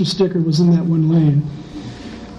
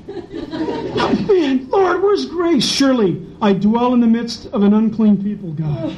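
mock pious lament; 4 semitones higher, slower than usual. Lady driver's pious complaint.

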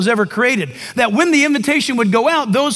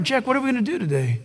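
soft, intimate voice; 6 dB quieter, faster than usual. Retold or imitated. God speaks softly to heart.

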